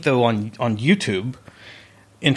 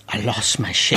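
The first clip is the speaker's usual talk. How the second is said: laughing; 2 semitones lower than usual. Real, not acted. Blunt rephrase amid laughter.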